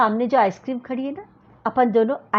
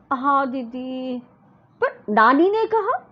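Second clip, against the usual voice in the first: put-on sulky little girl; 2 semitones higher, slower than usual. Parul objecting to her elder sister. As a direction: whine the protest to didi.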